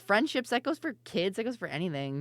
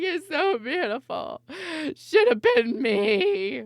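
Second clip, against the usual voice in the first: higher, slow, hammed-up weepy aside; mock jealous wedding guest; 11 semitones higher, 8 dB louder, slower than usual. Streamer pretending to be jealous at Faith's wedding, slow and weepy. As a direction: sigh it out like a bitter guest. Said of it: "And be like".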